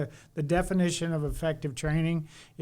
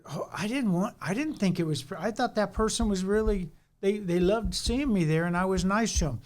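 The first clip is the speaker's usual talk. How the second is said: imitating a surprised man, pitched higher; retold surprise; 4 semitones higher than usual. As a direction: protest in mild, mock disbelief. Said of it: "he was so surprised".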